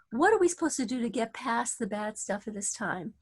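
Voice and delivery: ordinary talk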